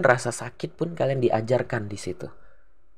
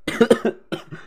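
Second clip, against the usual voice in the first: sudden harsh coughing fit; choking cough; 11 semitones higher than usual. Real, not acted. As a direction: cough hard as if something went down wrong. (batuk tersedak)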